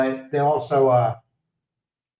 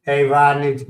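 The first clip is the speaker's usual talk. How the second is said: louder greeting called out across the street; calling out; 5 dB louder than usual. Real, not acted. Greeting neighbour Rodney passing by, called out loud. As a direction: hail him from a distance.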